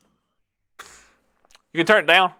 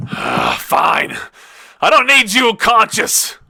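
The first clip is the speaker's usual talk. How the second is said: dismissive villain, a touch higher; 8 semitones higher, 5 dB louder, slower than usual. Acted. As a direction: toss it off like a bored villain. Villain speaks.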